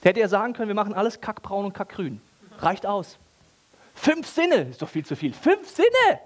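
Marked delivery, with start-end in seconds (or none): 5.3-6.2 high, loud mock outrage at five senses; mock outraged exclaim. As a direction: throw it out as a loud, high, incredulous cry. Mocking God's imagined stinginess.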